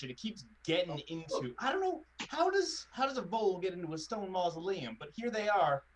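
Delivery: put-on lightly laid-on thick British accent; polite gardener in a heavy British accent. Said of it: "laying his accent on, like, three times thicker than normal".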